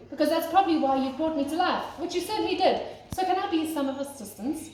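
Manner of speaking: lightly voiced snowman, rattling on; a chatty snowman who can't stop talking. Talkative snowman chatters to Father Christmas, lightly voiced. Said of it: "was rather talkative snowman".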